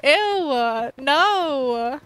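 loud ew and no; disgusted shout. Real, not acted. Seeing an unwanted villager, loud disgusted cry. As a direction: recoil out loud.

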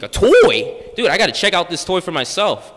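loud, eager "A toy?"; excited. Retold or imitated. Teen hears he got a toy, loud and eager. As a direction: jump at the news of a toy. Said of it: "And I'm like".

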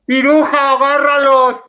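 loud, high yell to grab them; high mock yell at the handler; shouted order. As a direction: call out sharply across the room. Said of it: "le grita".

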